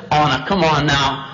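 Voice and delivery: lightly teasing serpent; mildly toying persuasion; playful coaxing. Acted. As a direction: wheedle casually at an easy pitch. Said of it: "played with it a little bit".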